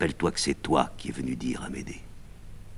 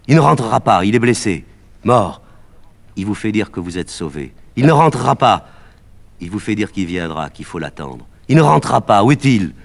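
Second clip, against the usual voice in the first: high, loud, insistent; urgent outcry; 5 semitones higher, 10 dB louder than usual. Acted. Médée cutting off the boy, high and loud. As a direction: cut him off, louder each time.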